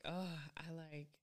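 soft slow whisper. Retold or imitated. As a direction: whisper it dreamily. Whispered mock quote.

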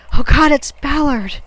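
high, very loud horrified cry; ringing shout. A narrator's reading. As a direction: shout it out across the water. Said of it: "southern man's voice ringing out".

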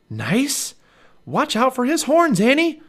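high, loud, incredulous alarm; alarmed warning. A narrator's reading. Jack warns Annie about the horns, alarmed. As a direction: cry out a warning, voice shooting up.

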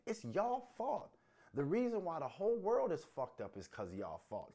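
high, loud accusation; angry blaming. Real, not acted. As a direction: lay the blame hard, voice rising.

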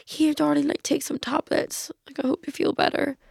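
softly acted sweet concern; kindly driver. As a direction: gently voice a kind driver offering help. Acting out the kind driver.

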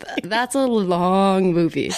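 slow, laughing agreement; laughing echo. Real, not acted. Echoing her friend about the long movie, laughing. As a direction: let the laugh run through it.

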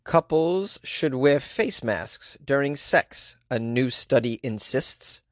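ordinary talk, nothing marked

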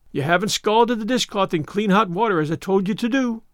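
mildly stern, unyielding reproof; immovable. Acted. Marilla scolds Anne over the dishcloth, immovable. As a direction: hold firm without heat. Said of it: "said Marilla immovably".

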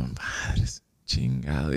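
a frustrated whisper at a locked door; maldición susurrada. Retold or imitated. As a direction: curse it under your breath, unvoiced and dropping low. Frustración al no abrir nadie. (maldición susurrada entre dientes)

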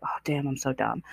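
hushed, to yourself; barely voiced self-scolding; whispered self-put-down. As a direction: whisper it like a private insult. Imitating old self-put-down.

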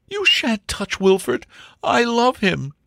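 high, drawn-out impassioned plea; defiant young woman. Acted. Angela shields Wilfred from the butler, high and impassioned. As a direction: defend your lover in a high voice. Angela defends her lover.

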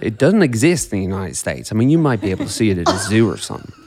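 put-on light Pittsburgh accent as a tour-guide dad. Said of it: "Pittsburgh accent".

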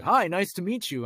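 high, loud, imitated friendly hello; imitated hearty greeting. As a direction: greet a newcomer heartily, as if quoting. Famous actor greets him, retold.

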